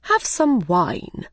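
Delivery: slow, mild courteous offer; politely. Acted. The Mad Hatter offering Alice wine, slow and polite. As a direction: offer it like a gracious host. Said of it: "the Mad Hatter said politely".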